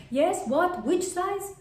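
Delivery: loud, high-pitched call into the phone; loud phone talk. Acted. Shopper on speakerphone irritating people in the shop, loud. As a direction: blurt it loudly into a speakerphone. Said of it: "it irritates people".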